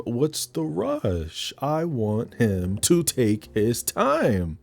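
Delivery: a mild slow tease; lazy sultry tease. Retold or imitated. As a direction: take your time, unbothered. Voicing Dominique's lover.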